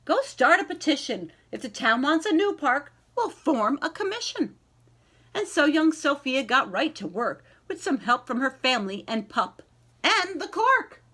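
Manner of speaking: slow, lilting read-aloud voice; gentle picture-book narration with rhyming lilt; storybook reading. Acted. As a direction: read it to a class of young kids. Teacher reads picture book aloud.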